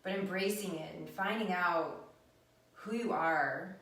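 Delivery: unhurried, hushed meditation guidance; guided meditation. Real, not acted. Teacher inviting viewers into their own depths, calm meditative guidance. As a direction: lead them inward, with long pauses between phrases.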